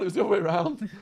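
loud, high blurted fix; excited correction. Real, not acted. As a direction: snap it out to correct.

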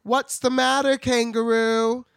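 high Dorothy voice. Retold or imitated. To the kangaroo, Dorothy asks in a high loud voice. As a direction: squeak it out like a bossy Dorothy.

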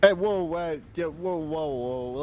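sudden loud alarmed whoa, settling down; startled outburst at a stranger's spell. Acted. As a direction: jump back in alarm, then try to calm her. Player's character startled by spellcasting.

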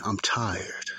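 mildly weary refrain, imitated; imitating tired repeating. Imitating the man on the bus who kept repeating it, mildly weary. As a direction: repeat it over and over like a worn-out man. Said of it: "Literally, that's how he sounded".

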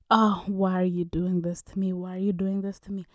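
hammed-up pleading, loud then whispered; mock begging man. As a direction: plead like a desperate man, mocking him. Retelling man begging dramatically.

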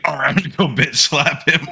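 high, put-on husband voice; mocking high-pitched imitation; mock resolve. Imitating a husband obeying his upset wife, high mock voice.

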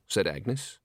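plain reading voice

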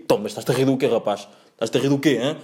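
imitated driver demanding an answer, everyday volume; rejected driver impression. Driver confronting a laughing passenger, lightly imitated challenge. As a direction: question him like an annoyed driver, lightly voiced. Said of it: "Não, não, não diz assim, não diz tipo".

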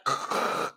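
short unvoiced throat clicking; imitated clicking. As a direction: click like a distant monster. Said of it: "you hear the clicking and the screaming".

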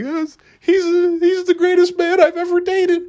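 high, dreamy mock girlfriend voice; mock swooning girlfriend. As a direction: gush like a lovestruck woman. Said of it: "and she's like".

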